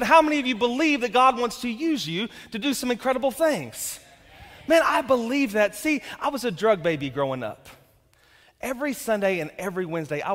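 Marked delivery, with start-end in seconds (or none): 0.0-4.0 louder, pushing the congregation to respond; louder repeat. Shown as a demonstration. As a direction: ask again with more force. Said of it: "you didn't hear the question".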